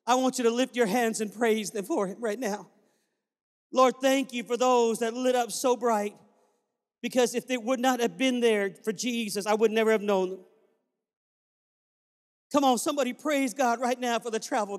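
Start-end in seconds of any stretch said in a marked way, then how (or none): 3.7-10.5 fervent spoken prayer to God. Acted. Pastor leading the church in thanks, praying aloud. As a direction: lift it up to the Lord with feeling.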